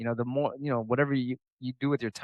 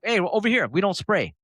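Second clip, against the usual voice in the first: raised-pitch beckoning call; farmer calling out; 6 semitones higher than usual. Retold or imitated. Farmer calling to shoppers at market, beckoning. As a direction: imitate a vendor hailing customers over.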